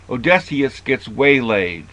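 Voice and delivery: waylaid with the weight on laid; stress on laid. Shown as a demonstration. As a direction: lean on laid in waylaid for the pun. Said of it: "with the emphasis on the word laid".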